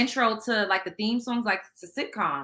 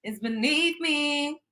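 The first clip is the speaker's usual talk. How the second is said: slow, dreamy quote of Kenny, lightly voiced; quoting Kenny; 4 semitones higher, slower than usual. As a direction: float above it all, drawn out and lofty. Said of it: "Kenny said".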